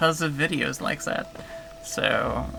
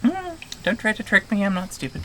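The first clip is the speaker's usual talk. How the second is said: game creature voice; 5 semitones higher than usual. Acted. Game creature refusing to be tricked, high creature voice. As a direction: pitch it up as a creature nobody fools. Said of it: "doing that voice".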